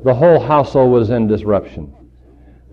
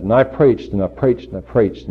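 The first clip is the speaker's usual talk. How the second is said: wearily repetitive; 4 dB quieter than usual. Retold or imitated. Preacher recounting his endless preaching, wearily repetitive. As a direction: repeat it like a routine running down.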